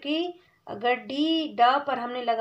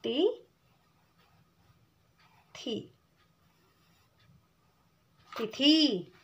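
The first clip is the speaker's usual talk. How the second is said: syllable by syllable; 4 dB quieter, much slower than usual. Shown as a demonstration. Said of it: "तिथि को यहाँ पर लिख देते हैं".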